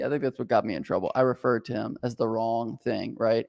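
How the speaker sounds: ordinary talk, nothing marked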